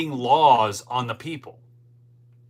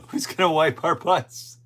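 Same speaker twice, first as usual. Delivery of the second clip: mock whiner; 4 semitones higher than usual. Mocking voice of fired workers.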